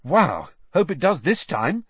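delighted at the idea; high, keen wow; enthusiastic. A narrator's reading. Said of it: "said Harry enthusiastically".

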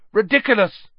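loud, high shouted spell; yell. A narrator's reading. Pupil casting at the severed hand, yelling. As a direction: yell out the incantation. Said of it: "yelled Dean".

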